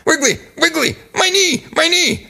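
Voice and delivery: high, strained imitation of an injured wrestler; mock pained whisper. Injured partner alerts the wrestler onstage, mock pained whisper. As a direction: squeeze out a hammed-up secret cry of pain. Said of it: "he's whispering".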